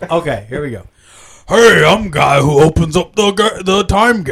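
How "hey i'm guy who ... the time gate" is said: Stargate character impression. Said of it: "The cast of Stargate Universe".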